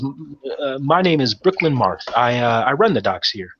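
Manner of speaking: flustered, tripping over the words; an anxious man rushing to apologise; lightly voiced nervous dockmaster; stumbling over himself. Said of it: "he's, like, stumbling over himself".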